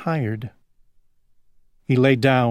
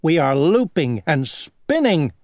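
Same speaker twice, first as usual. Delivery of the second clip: dragonfly voice; 4 semitones higher, 3 dB louder than usual. Acted. Second dragonfly boasts.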